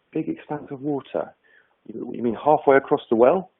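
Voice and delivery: lightly acted wondering, checking the meaning; puzzled echo. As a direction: echo it tentatively as a question. Frog echoes it, wondering.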